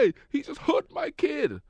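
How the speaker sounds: loud, high, slow indignant yell; mother going off. Retold or imitated. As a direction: holler like an outraged sideline mom. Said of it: "the mother just went off".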